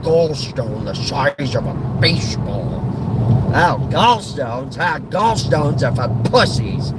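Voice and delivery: dismissive, scornful grumbling about ailments; grumpy old grouch. Acted. Old man scoffing at gallstone complaints, scornful grumble. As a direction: grumble with contempt for others' pain.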